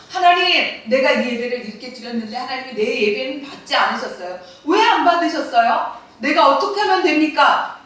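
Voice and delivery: a believer begging God to show the way; earnest plea to God. Retold or imitated. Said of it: "하나님이 중심이었다라고 한다면".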